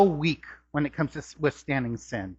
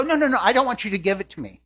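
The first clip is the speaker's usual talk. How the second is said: quick protesting "no, no, no"; hurried refusal; 3 semitones higher, much faster than usual. Acted. Person turning down an offered gift, hurried refusal. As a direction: wave the offer away in a rush.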